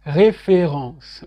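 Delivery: référence said the French way, as the wrong version. Shown as a demonstration. Teacher contrasting the French word, plain. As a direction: show the French way to avoid. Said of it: "c'est pas référence".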